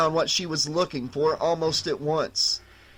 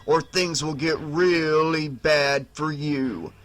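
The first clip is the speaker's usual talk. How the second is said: menacing warning. Acted. Undead brother warning his sister, slow and menacing. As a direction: lean in and warn her slowly. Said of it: "Boone warned her".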